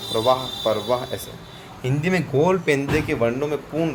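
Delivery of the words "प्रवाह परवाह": प्रवाह said slowly with a real half र, then परवाह with a full extra vowel as the wrong form; slow pronunciation demo. Shown as a demonstration. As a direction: say प्रवाह and then परवाह slowly, setting the conjunct against the split syllable. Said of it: "प्रवाह में परवाह".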